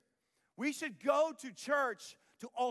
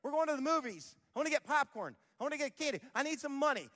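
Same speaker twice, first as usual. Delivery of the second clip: put-on kid begging mom; 5 semitones higher than usual. Parodying a kid begging mom for money, higher and pleading. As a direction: whine for movie money. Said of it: "we go".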